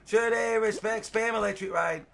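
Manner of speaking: high, loud rallying call; rally the chat behind a supporter; hyped shout-out. Real, not acted. Still hyping the supporter.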